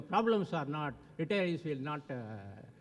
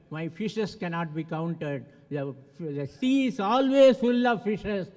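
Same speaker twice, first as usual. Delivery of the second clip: slow, loud and declaring; slow proud proclamation; 6 dB louder than usual. Acted. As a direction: drive home the moral. Moral of the parable, proclaimed.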